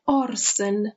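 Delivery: "آرسن" said carefully as AR-sen; careful pronunciation. Shown as a demonstration. Teacher shows class the pronunciation, carefully modelled "آرسن". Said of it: "تلفظش رو دقت کنید".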